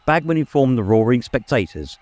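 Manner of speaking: brisk, booming match announcer; sports commentator Bagman. Acted. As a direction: call the foul to the whole stadium.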